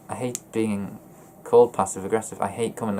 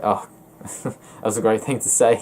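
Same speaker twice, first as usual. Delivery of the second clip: amused, joking reaction; having a laugh. Acted. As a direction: chuckle through the line. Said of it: "having a laugh".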